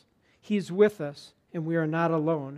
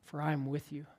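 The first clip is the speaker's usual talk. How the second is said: unhurried, hushed reassurance from scripture; slower reading; 7 dB quieter than usual. Retold or imitated. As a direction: say it quietly and let it settle. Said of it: "began to read that slower".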